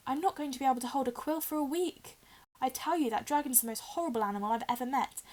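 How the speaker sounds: a hint of a put-upon schoolboy grumbling about the dragon; Ron, aggrieved.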